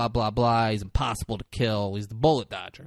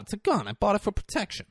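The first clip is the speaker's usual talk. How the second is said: defensive; 9 semitones higher, faster than usual. Retold or imitated. Acted defence of carrying gun.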